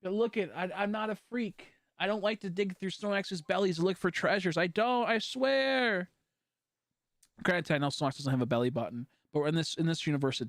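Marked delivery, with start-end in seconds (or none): 0.0-6.1 mock pleading. Pleading not a freak.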